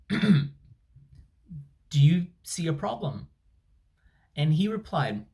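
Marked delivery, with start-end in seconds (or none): 0.1-3.3 hushed, slow unvoiced whisper. Traveller retelling his question to the check-in guy, whispered. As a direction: breathe the question, barely voiced.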